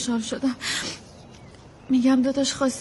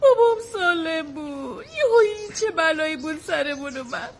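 tearful; 3 semitones higher than usual. Acted. Daughter upset about father in hospital.

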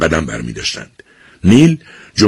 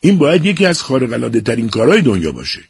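high, bright-eyed burst of joy; thrilled boy raving about the stage; excited; 8 semitones higher than usual. A narrator's reading. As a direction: gush about acting, pitch up. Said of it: "با هیجان گفت".

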